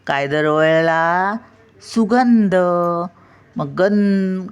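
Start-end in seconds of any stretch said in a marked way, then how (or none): 1.8-2.6 सुगंध with गं lifted high and punched; stress on गं. Shown as a demonstration. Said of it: "मग ग वर टिंब येणार". (सुगंध चा गं खूप उंच)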